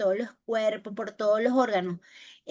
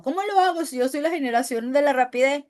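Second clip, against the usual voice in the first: student objecting; 3 semitones higher, 4 dB louder, faster than usual. Acted. Voicing an anxious student's objection.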